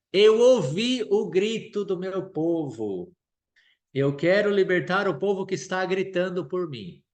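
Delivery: a hint of God's solemn voice. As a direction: speak as God, slow and solemn. Preacher voices God speaking to Moses.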